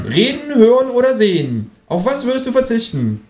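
high, eager animal voice; kangaroo voice. Acted. Kangaroo quizzes the narrator, high and eager. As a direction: quiz him like a game.

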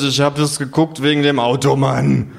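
etwas betrunken empört, erhöhte Stimme. Acted. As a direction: sich mit hoher Stimme empört rechtfertigen. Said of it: "rufe ich empört". (empörte Rechtfertigung)

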